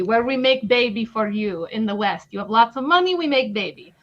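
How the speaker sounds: broken English, mock Ukrainian accent. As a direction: play a Ukrainian agent, lightly accented. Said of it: "in a funny Ukrainian accent".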